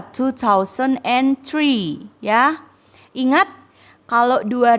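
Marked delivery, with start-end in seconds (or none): 0.0-2.1 slow model reading. Shown as a demonstration. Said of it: "Dua ribu tiga".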